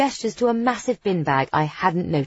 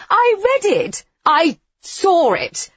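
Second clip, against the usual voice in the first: agitated; 13 semitones higher, 6 dB louder, slower than usual. A narrator's reading. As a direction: voice shoots up, frantic. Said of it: "Demeter's voice shoots up in agitation".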